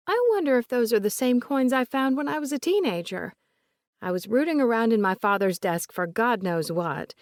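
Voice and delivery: The speaker, lightly voiced.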